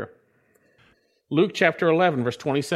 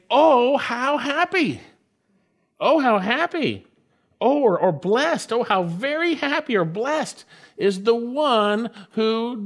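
emphatic exclamation; 7 semitones higher than usual. Shown as a demonstration. Preacher shows the psalm's emphatic opening, exclaiming. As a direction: exclaim it with raised pitch. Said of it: "is actually emphatic".

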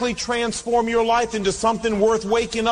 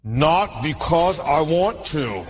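grudging; 3 semitones lower, slower than usual. Retold or imitated. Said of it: "I felt like saying".

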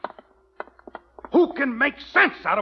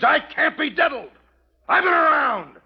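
indignant yell; angry shout; 5 semitones higher than usual. Acted. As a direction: shout the point home. Yelling at the absent widow.

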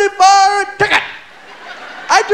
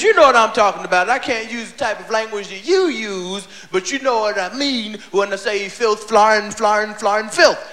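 Bill Cosby voice; 9 semitones lower than usual. Retold or imitated. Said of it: "He says".

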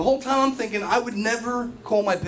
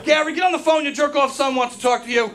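calling out; 5 semitones higher than usual. Retold or imitated. Mom calling dad over.

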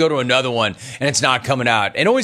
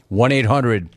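announcer number read; slower than usual. Acted. Reads the phone number slowly.

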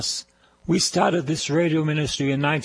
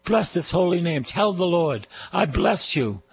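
raised, ringing call to praise the Lord; praise-leading preacher; 5 semitones higher than usual. Acted. Preacher leading listeners in praise, raised ringing voice. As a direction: lead the people in blessing God, higher and fuller.

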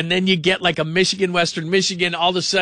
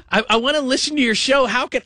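a touch of the high helpless parent voice; 7 semitones higher than usual. Retold or imitated. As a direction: plead lightly like a confused parent. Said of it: "They're always asking".

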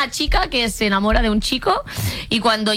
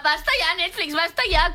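exasperated; 7 semitones higher, 3 dB quieter than usual. Real, not acted. Exasperated rant at Netflix.

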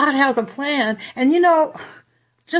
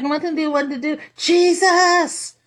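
high cry to Jesus; calling out; 4 semitones higher than usual. Retold or imitated. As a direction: cry out the name for help. Calling out in panic.

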